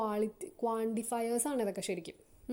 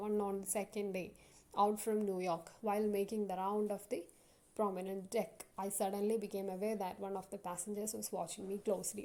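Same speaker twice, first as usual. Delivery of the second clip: slow text reading; 3 dB quieter, much slower than usual. Acted. Teacher reads passage to class.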